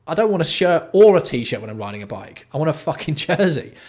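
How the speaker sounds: loud exasperated rant. Real, not acted. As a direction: vent about the jersey copy. Ranting at jersey copy.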